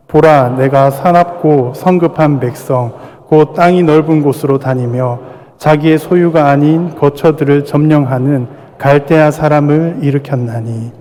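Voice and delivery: slow, measured scripture recitation; scripture reading. Acted. Pastor leads the church reading Habakkuk, slow and solemn. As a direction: read it together, slow and solemn. Congregation reads scripture aloud.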